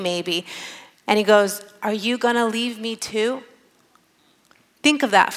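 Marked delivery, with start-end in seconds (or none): 1.8-3.4 softly voiced vulnerable question; Jesus. Jesus asks his closest followers if they will leave, softly vulnerable. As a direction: ask gently, exposed, with a slight final rise. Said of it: "vulnerable side that he shows those who he loves".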